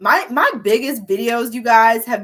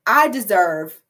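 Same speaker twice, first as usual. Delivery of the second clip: I deserve louder, punched out; all caps; 6 dB louder, slower than usual. Shown as a demonstration. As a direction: say it like a shouted mantra. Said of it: "all caps".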